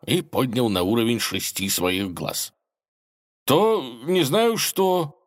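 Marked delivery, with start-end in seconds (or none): 3.4-5.2 high, slow dazed babble; babbled. A narrator's reading. Dazed Ivan babbling to the dragon, high and slow. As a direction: mumble it like a stunned lad. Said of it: "пролепетал Иван".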